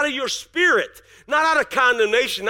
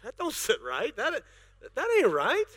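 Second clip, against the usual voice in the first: spirit's objection; 6 dB quieter than usual. Retold or imitated. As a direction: sing it out like the spirit protesting. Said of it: "Your spirit's like".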